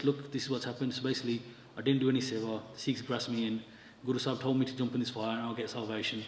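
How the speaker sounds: understated, slightly subdued grumble; mild retold moaning. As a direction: complain softly, imitating a reluctant man. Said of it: "he's moaning and groaning".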